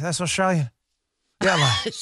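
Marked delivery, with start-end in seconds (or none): 1.4-1.9 badly faked English accent; terrible English accent. Host jokes about sending the lad for coffee, bad English accent. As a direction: put on a clumsy English accent. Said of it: "really terrible English accents".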